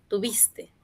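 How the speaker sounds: breathy whispered repeat. Shown as a demonstration. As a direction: whisper it to the class. Teacher repeats translation softly. (susurrando en voz baja)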